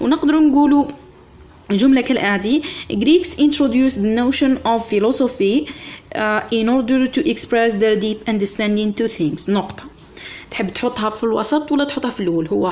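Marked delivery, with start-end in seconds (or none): 2.9-9.8 slow, even dictation pace; teacher dictating to students. Acted. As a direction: read it out word by word for copying. Dictating the sentence to class.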